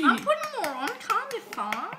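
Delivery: teasing. Real, not acted. Teasing argument over amounts.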